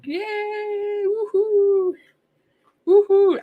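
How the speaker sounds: high, thrilled woohoo; excited cheering. Real, not acted. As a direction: cheer as if you won something. Celebrating a donation.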